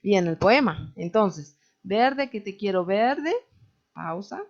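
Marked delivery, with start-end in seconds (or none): 1.8-3.3 slow verse, stopping after the final "verde"; verse with end pause. Shown as a demonstration. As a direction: recite "verde que te quiero verde" as one measured line, then pause. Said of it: "si ustedes no respetan las pausas al final del verso".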